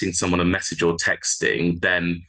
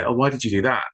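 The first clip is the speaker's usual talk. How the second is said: higher, breezy and friendly, Oh, why did you do that? with a falling end; light casual ask; 5 semitones higher, faster than usual. Shown as a demonstration. Helpline trainer showing a harmless-sounding why question, light and easy. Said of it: "you're just saying it as a".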